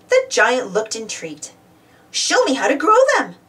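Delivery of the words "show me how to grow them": higher-pitched, insistent demand. A narrator's reading. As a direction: make it a firm storybook demand. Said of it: "she demanded".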